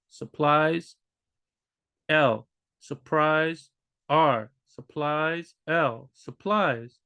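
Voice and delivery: slow minimal pairs, "supplies" against "surprise"; slow teacher drill contrasting L and R; slow L-R quiz. Shown as a demonstration. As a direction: quiz the listener one word at a time. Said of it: "if I do it subtle enough".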